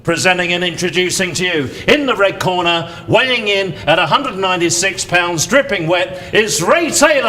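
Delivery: announcer welcoming the crowd to a title fight, booming; boxing ring announcer. Acted. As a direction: call the fighters into the ring at the Royal Albert Hall. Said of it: "you're a prize fight announcer".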